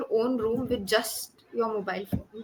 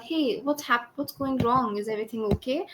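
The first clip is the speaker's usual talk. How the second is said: concerned check on a friend; loving concern. Shown as a demonstration. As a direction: show a little love and concern. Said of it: "a little bit more concern".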